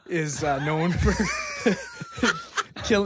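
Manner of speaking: can't keep a straight face through a mock German accent; fake German accent. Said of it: "Just say it normally".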